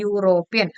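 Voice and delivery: യൂറോപ്യൻ said starting with a "yoo" glide; yoo sound demo. Shown as a demonstration. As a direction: begin യൂറോപ്യൻ on "yoo", teaching it. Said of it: "യായാണ് pronunciation വരുന്നത്". (യൂറോപ്യൻ "യൂ" ശബ്ദം കാണിച്ച് പറയുക)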